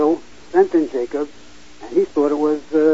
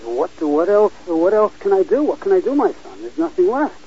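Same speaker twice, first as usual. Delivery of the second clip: put-on a touch higher, helpless old father asking what more he can do; hint of a helpless patriarch, raised pitch; lightly voiced pleading father; 4 semitones higher than usual. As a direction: read as Isaac, mildly distressed, voice lifted. Isaac answering Esau's plea.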